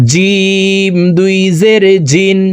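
long drawn "জিম", J from mid-tongue; mid-tongue Jim. Shown as a demonstration. Teacher demonstrates Jim, drawn out from the middle of the tongue. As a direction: hold "জিম" slowly, then a crisp J in "জিন". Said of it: "জিব্বার মধ্যখান থেকে উচ্চারণ".

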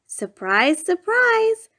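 second surprise leaps high and bright; spring the surprise on the listener; surprised exclaim. A narrator's reading. Narrator springing a surprise on the listener, rising exclaim.

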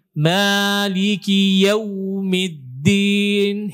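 "yaumiddin" with the au pushed hard, losing its softness; slow chant, straining on the glide of "yaumiddin"; over-pressed, wrong reading. Shown as a demonstration. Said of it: "sering sekali dibaca begini".

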